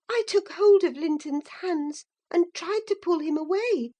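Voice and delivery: plain reading voice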